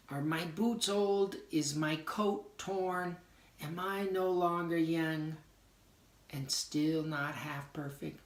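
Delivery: quoting the poem's doubts while explaining it; doubting questions. Shown as a demonstration. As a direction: ask the doubts again, a bit lighter. Quoting poem again.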